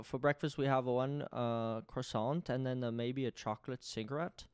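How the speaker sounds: soft, halting fake German accent; badly faked German accent, groping for words. Shown as a demonstration. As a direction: try a German accent and fumble it. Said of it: "This is not my best work".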